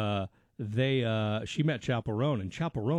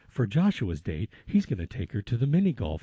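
show narrator; 6 semitones lower than usual. Retold or imitated. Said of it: "the narrator's like".

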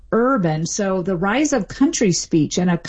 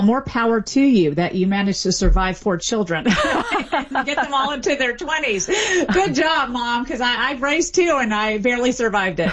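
real chuckles between phrases, pitched up; lighthearted, laughing as you talk; amused, laughing; 4 semitones higher than usual. Real, not acted. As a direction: laugh through a teasing congratulation. Joking about surviving raising children.

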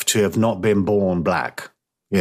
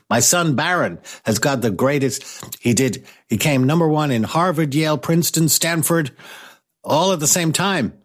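higher-pitched boastful president impression; Donald Trump; 7 semitones higher than usual. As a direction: brag like a proud politician father. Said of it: "imagine Donald Trump".

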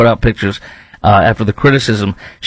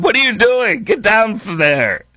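mock scolding; 10 semitones higher than usual. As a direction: scold her like a parent, half joking. Scolding Sweeney on rim.

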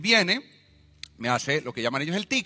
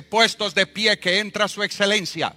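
loud, higher courtroom herald; policeman announcing; 5 semitones higher, 5 dB louder, slower than usual. Retold or imitated. Policeman announcing the judge to the court, commanding. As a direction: call the room to rise. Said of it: "Y el policía, un moreno alto".

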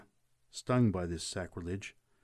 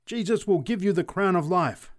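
high, raised, exultant proclamation; fervent preacher's cry; exultant scream; 9 semitones higher, 4 dB louder than usual. A narrator's reading. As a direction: proclaim salvation in triumph. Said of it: "screamed the preacher exultantly".

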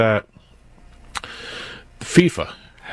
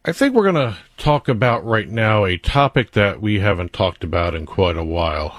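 sarcastic. Acted. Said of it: "I'm being sarcastic with that statement".

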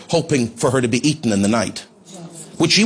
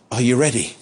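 gentle; 4 semitones lower than usual. Retold or imitated. Preacher checking on an injured woman, very gently. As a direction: ask it very gently, pitched low. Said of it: "I said very gently".

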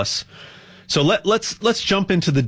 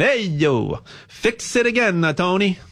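put-on Italian accent; 2 semitones higher than usual. Telling the Fiat joke to listeners, in a mock Italian accent. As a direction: ham up a playful Italian accent. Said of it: "I'll say it with an Italian accent".

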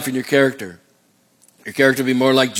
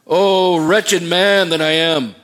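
crying out; 3 semitones higher, much slower than usual. Acted. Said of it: "Paul just cries out and says".

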